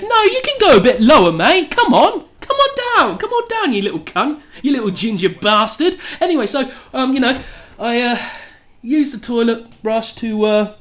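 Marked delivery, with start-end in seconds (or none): 0.0-6.0 taunting rock bottom. Retold or imitated. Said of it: "rock bottom says".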